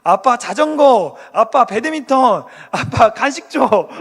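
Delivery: put-on loud, slow nagging child; kids demanding things. Children pestering their dad for things, loud nagging. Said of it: "이러면서 자꾸 아빠만 찾아요".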